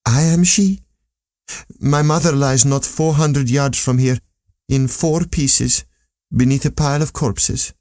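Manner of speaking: put-on a grieving girl naming her loss, slowing on the worst words; young princess, grieving. Princess tells of her mother's death.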